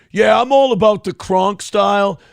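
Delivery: loud mock bragging; a loud mocking boast; mock boast, shouted. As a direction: shout it like a cocky gym kid. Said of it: "Triple N".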